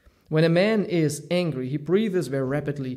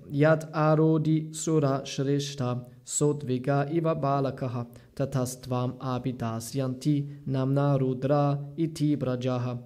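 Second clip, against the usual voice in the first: Sanskrit verse recitation. Acted.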